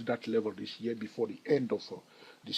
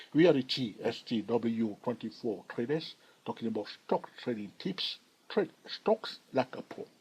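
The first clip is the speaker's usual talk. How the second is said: emphatic slogan. Acted. Host signing off to his viewers, emphatic slogan. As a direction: announce the channel tagline with punch. Channel slogan repeated at sign-off.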